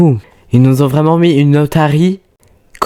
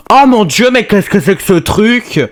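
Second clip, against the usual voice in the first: astonished; 6 semitones higher, 3 dB louder than usual. Real, not acted. Egg hatches into rare pet.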